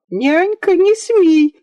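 put-on little girl screaming at her nanny not to dare; crying shout. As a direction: stamp and scream at the nanny through tears. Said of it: "закричала, заплакала и затопала ножками Ия".

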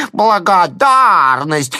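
high, slow, loud jeering cry; mocking shouted word. A narrator's reading. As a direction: yell it mockingly, drawn out. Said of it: "кричит".

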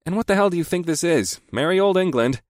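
lightly voiced friend.

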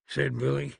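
plain reading voice

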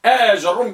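آج الروم said as aa-jar-rum; fatha on jim. Shown as a demonstration. Teacher checking the fifth type, open jim. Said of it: "بفتح الجيم".

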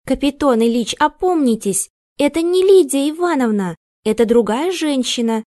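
high, loud shouting into his ear; sharp shout. A narrator's reading. Maid to the confused man, sharp loud shout. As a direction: shake him awake with your voice. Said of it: "Резко закричала она ему в ухо".

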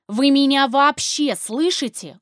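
loud, slow, pleading yell; desperate shout. Acted. Captive wife shouting at her deaf husband. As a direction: shout to break through to him. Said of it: "уже кричу я".

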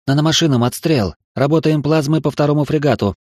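high, urgent fire command; combat callout. Acted. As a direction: bark the firing order. Officer shouts fire orders.

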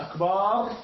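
"أكبر" said "akbaar" with a long a; added alif. Shown as a demonstration. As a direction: stretch the second vowel of "أكبر". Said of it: "زاد بين الباء والراء ألفا".

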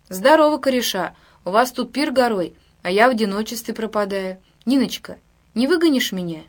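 loud, cheery barge-in greeting; booming hello to the gang; hearty greeting. Acted. Swaggering sailor barges in.

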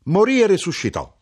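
high and loud, marvelling; emphatic wonder. A narrator's reading. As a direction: announce the miracle with fervour. Mother's emphatic claim. (stupore acceso, acuto e forte)

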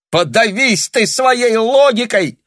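very high, loud, slow cry of spite; furious shout. A narrator's reading. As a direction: spit it out in fury. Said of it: "решительно заявила Таня и с отчаянием". (яростный крик)

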